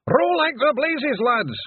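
very high, loud, drawn-out Scottish pixie yell. Acted. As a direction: scream at the lads to row for their lives. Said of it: "Rob Anybody yelled".

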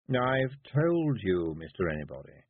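slow, lightly voiced toad lawyer; a hint of a pedantic toad. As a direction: explain patiently like a dry lawyer.

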